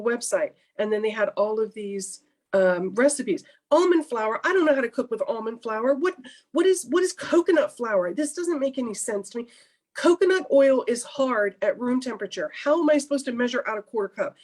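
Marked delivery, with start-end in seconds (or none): 3.7-14.4 high, frustrated run of complaints; reliving the baking frustration, pitched up; retold exasperation. Talking about baking with new flours, exasperated and high. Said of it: "I was angry".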